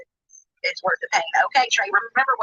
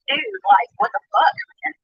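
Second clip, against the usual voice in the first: high, loud exasperation; exasperated; 10 semitones higher, 5 dB louder than usual. Real, not acted. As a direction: throw up hands in disbelief. Exclaiming in disbelief.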